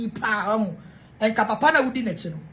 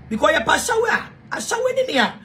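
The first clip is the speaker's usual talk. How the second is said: high-pitched, laughing delivery; 5 semitones higher than usual. Real, not acted. Explaining the insult to viewers, laughing. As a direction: talk through a laugh, pitch shooting up.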